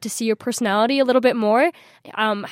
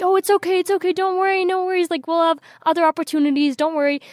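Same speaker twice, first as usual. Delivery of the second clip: higher, soothing big-sister voice, repeating it's okay; comforting older sister; 7 semitones higher than usual. Retold or imitated. Older sister comforts her sobbing sibling at the hotel door, higher and soothing. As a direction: hush a crying sister, higher and gentle.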